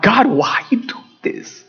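slow, held-back plea to God; retold plea. Father retells pleading with God.

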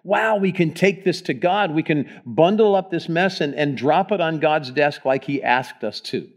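bright, lifted, eager; hopeful eagerness. Shown as a demonstration. Pastor modeling hopeful prayer for the church, eager. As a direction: announce it like good news. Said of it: "come with this idea of".

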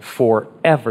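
"forever" set apart as an exclamation; emphatic forever. Shown as a demonstration. Pastor reads the verse's exclamation, emphatic "forever". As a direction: land firmly on "forever". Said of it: "here's the exclamation point".

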